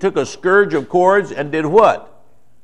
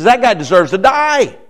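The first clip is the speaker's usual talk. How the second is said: mild mock anger, a little higher and louder; angry verdict; 5 semitones higher, 4 dB louder than usual. A preacher showing King David's angry judgment, mildly heated. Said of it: "He's angry".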